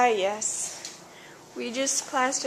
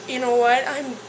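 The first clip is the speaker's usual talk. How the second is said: imagined angry neighbor. Retold or imitated. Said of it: "what if he was like".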